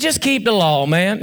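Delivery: mild, understated sarcasm; offhand, mildly sarcastic reply. Acted. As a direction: say it with a light touch of sarcasm. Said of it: "he's saying that kind of sarcastically".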